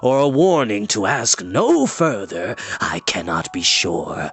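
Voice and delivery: each word wrenched out; heavy-hearted old enchanter. Acted. Enchanter continues prophecy.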